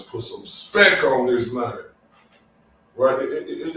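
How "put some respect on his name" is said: a light hint of Jimmy, a touch louder. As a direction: lean into it like you're quoting your buddy. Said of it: "in my Jimmy voice".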